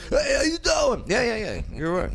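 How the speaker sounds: high put-on mock Chinese accent; hammed-up mock Chinese accent voice. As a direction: jokingly ham up a Chinese accent, pitched high. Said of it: "make fun of people's accent".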